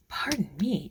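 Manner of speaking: hiccuping mid-sentence; catching a hiccup. Real, not acted. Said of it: "I've got the hiccups".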